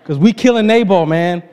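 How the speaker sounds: rally the men, half joking; David rallying his men, hammed-up fury; mock battle cry. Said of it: "But he said".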